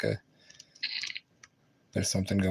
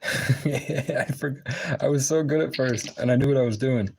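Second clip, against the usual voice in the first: venting at the game, pitched up; exasperated rant; 5 semitones higher, slower than usual. Real, not acted. Frustrated outburst at the game.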